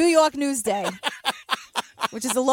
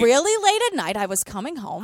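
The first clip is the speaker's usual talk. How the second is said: put-on New York accent. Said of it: "Can you do her accent?".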